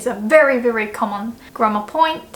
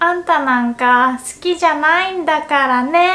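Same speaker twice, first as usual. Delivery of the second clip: put-on high huffy tsundere girl; 5 semitones higher, 3 dB louder than usual. Shown as a demonstration. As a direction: pout it out like a tsundere. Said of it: "sound more tsundere-like".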